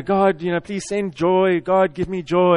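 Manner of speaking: drawn-out pleading, only lightly acted; mild mock pleading, slow on the key words; imitated tearful plea. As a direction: stretch the begging words as if retelling a tearful prayer. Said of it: "he's crying for joy".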